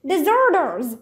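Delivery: high accusing shout; shouted accusation. Acted. Centurion shouting at the fleeing children. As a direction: yell it across the camp. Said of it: "the centurion shouted again".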